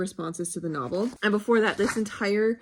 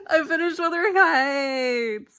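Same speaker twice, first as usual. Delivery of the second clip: high, slow, laughing announcement; excited; 8 semitones higher, 6 dB louder, slower than usual. Real, not acted. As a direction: announce it with a laughing cry of joy. Triumphant book finish.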